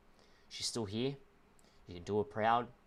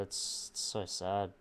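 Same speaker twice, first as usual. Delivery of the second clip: holding back tears; slower than usual. Real, not acted. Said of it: "I'm trying not to cry at the moment".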